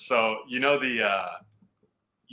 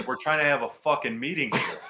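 mock angry coach line, laughing through it; half-laugh while imitating the irritated coach; laughing through quote; 4 semitones higher than usual. Running backs coach scolding the late rookie, said while laughing.

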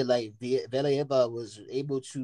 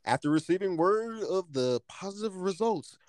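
news anchor read, pitched up; news reporter voice; 6 semitones higher than usual. Shown as a demonstration. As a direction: read it like a TV newscaster. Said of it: "let me get my news reporter voice".

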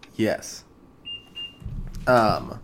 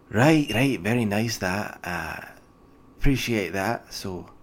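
a hint of a gruff dwarven clerk, pleased; dwarf official; 2 semitones higher than usual. GM as dwarf official greeting the party, lightly voiced.

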